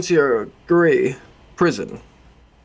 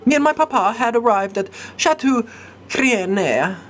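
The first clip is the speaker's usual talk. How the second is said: put-on high, light young lady recalling; high storytelling lady; girlish voice; 5 semitones higher than usual. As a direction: tell it brightly as a little lady, pitched up. Cat lady recounts the night.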